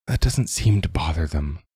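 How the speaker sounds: speaking into the table, muffled; head down on table, muffled. Acted. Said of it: "Even muffled".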